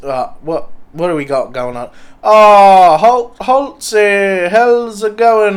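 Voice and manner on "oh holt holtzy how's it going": loud greeting. Real, not acted. Greets the host loudly.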